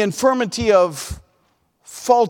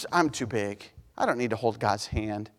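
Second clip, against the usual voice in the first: proud mock; 12 semitones lower, 10 dB quieter than usual. Proud believer mocked.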